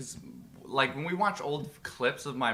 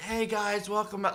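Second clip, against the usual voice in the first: put-on raspy, pitched-up old voice; 7 semitones higher than usual. Imitating an old video of oneself: imitating own old raspy voice.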